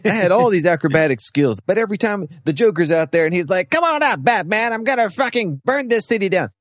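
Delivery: hammed-up whiny grievance; high mock rant. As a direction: rant like an aggrieved sidekick. Nightwing ranting about Joker.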